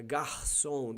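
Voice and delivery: Carioca Portuguese with guttural h for r; drawn-out Carioca "garçom", throaty r; Carioca accent. Shown as a demonstration. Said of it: "why the Cariocas speak like this".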